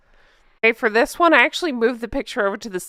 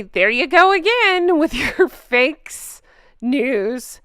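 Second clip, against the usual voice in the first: mocking commenter voice; 3 semitones higher, 3 dB louder, slower than usual. Reading a mocking comment aloud.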